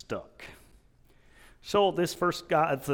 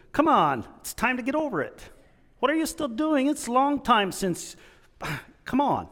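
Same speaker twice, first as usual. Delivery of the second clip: impatient bear; 8 semitones higher than usual. Retold or imitated. Second bear pushing the stuck one.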